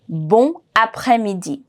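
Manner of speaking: Bon après-midi with a nasal, silent N; no liaison. Shown as a demonstration. Teacher has learners repeat after her, words unlinked. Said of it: "Repeat after me".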